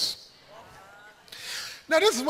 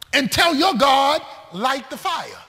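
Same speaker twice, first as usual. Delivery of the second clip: preached shout; 3 semitones higher, 4 dB louder than usual. Acted. Preacher voicing Elijah's dare to the prophets, shouted loud. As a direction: call it out loud, full preacher force.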